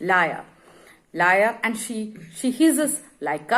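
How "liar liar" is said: angry accusation. Acted. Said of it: "she calls him a liar".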